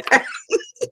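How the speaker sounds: airy high-pitched giggle fit; a real giggle she can't hold in; high breathless giggle. Real, not acted. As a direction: giggle helplessly under the breath. Laughing at herself.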